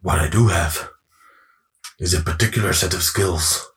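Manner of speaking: low, menacing movie hero; measured, low-pitched tough guy; film tough-guy impression. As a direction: deliver it like a grave action-film threat. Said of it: "I gotta try this again now".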